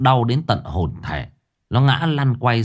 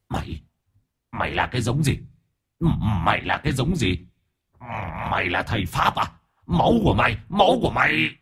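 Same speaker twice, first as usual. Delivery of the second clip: growling ghost; 2 semitones higher, faster than usual. A narrator's reading. Possessed spirit snarling at the boy about his blood. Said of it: "gầm ghè".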